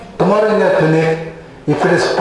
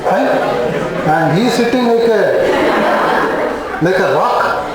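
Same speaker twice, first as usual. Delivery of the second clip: pulsatilla patient; 2 semitones higher than usual. Acted. Pulsatilla patient complaining about an unmoved doctor, mock aggrieved. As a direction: lightly act out a hurt patient's complaint. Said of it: "pulsatilla will feel".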